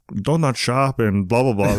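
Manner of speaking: bad mock German accent, slow; a lazy jokey German accent; horrible German accent. Mock German accent to amuse his guest. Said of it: "That's my horrible German accent".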